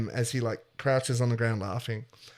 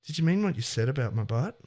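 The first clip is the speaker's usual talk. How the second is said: flirtatious; faster than usual. Acted. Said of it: "she's being a little flirtatious".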